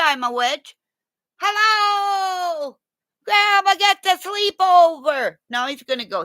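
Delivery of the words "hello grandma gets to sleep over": dog-talk sing-song. Real, not acted. Talking to dogs.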